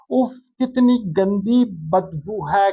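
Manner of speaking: slow, disgusted groan at a foul smell. Shown as a demonstration. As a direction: recoil from a bad smell. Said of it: "उससे नफरत का इजहार किया जा रहा है".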